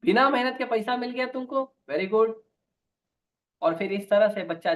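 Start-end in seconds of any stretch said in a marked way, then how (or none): 0.0-2.3 higher, pleased praise from the mother; mother happily praising her son's theft; delighted mother. Retold or imitated. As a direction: praise the stolen money gladly. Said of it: "माँ को अच्छा लगा".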